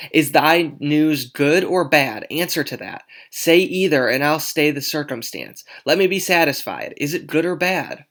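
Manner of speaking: put-on loud, exasperated demanding girl; impatient Juliet. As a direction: demand an answer, fed up.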